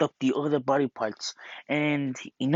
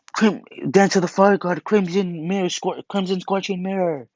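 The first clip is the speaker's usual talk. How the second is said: shouted attack name; 6 semitones higher than usual. Retold or imitated. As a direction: yell the technique name as you strike. Tanjiro shouts final attack.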